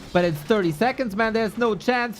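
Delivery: usual speaking voice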